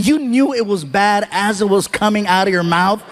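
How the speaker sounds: normal talking voice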